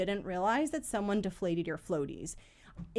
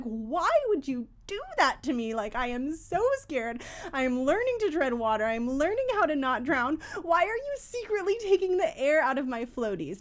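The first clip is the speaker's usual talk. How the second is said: mock upset child; 5 semitones higher than usual. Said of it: "internally, like, super upset".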